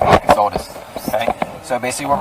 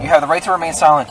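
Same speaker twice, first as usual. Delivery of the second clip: reading Miranda rights. Real, not acted. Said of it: "I'm gonna read you your Miranda rights".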